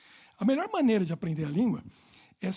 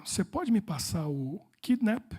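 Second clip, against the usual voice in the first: careful slow question; slower than usual. Retold or imitated.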